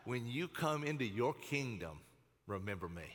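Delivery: dropping to low, soft sincerity; solemn request. Acted. Jonathan asks David to remember him, solemn. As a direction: ask it gently, sinking at the end.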